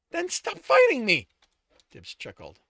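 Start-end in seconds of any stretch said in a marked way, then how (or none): 0.1-1.3 very high, loud outburst; exasperated shout. A narrator's reading. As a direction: yell it at a stubborn friend. Sto's exasperated outburst in argument.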